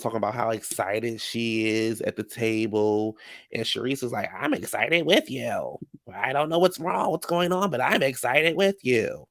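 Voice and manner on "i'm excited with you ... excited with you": lightly mimicked castmate, drawn out and lilting; imitating a castmate. Recapper mimics Sharice at the table, lilting imitation. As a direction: stretch it into a put-on sing-song, rising in the middle.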